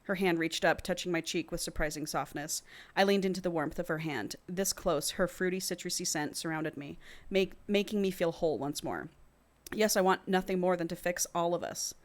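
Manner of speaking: measured audiobook-style reading; story narration. A narrator's reading. Co-host reads a romance novel to the other, measured narration. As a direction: read the passage aloud evenly.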